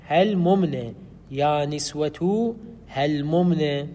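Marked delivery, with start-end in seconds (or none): 0.1-0.9 هل ممن slowly as "hel-mum-ne"; two meems separated. Shown as a demonstration. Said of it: "يجب أن تقول". 2.9-3.9 هل ممن drawn out as "hel-mum-ne"; slowly unmerge the meems in هل ممن; two meems separated. Shown as a demonstration. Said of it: "يجب أن تقول".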